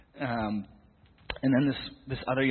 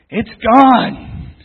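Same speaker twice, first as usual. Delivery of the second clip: a much higher, much louder joyful scream; ecstatic shout; 12 semitones higher, 21 dB louder than usual. Retold or imitated. Healed girl shrieking to the whole group in joy. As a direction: burst out in disbelieving joy.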